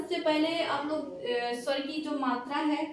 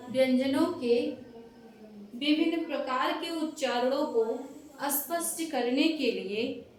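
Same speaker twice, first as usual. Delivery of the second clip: dictation pace. Shown as a demonstration. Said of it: "देखो भाई".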